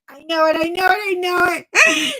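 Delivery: worked-up insistence. Real, not acted. Vlogger sure somebody has her diamond painting, worked-up and insistent. Works self up before "Karen.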